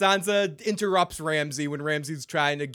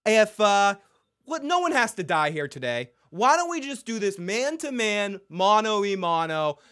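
high, loud mock challenge; hammed-up heroic dare; imitating Jon Snow; 4 semitones higher, 3 dB louder than usual. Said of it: "Where he goes".

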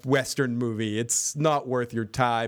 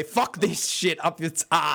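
slow, lightly put-on Yoren voice; mock Yoren impression; 3 semitones higher, slower than usual. Host imagines Yoren's verdict on Pixels, slow mock impression. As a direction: drag it out as an imagined curse from Yoren. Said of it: "What would Yoren say about Pixels".

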